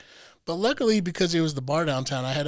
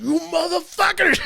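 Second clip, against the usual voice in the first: higher, mock angry yell; retold yell; 11 semitones higher, 4 dB louder than usual. He spots the man again and yells at him, mock angry. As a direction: bark it as a mock insult.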